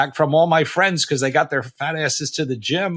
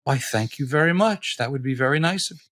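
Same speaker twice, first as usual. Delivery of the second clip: put-on polite old lady; 3 semitones higher than usual. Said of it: "she was like".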